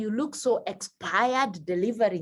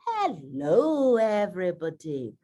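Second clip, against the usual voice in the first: warm open greeting, falling; open hello; 4 semitones lower than usual. Shown as a demonstration. Teacher greeting an audience openly and warmly. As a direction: greet them with open arms. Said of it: "We go by saying".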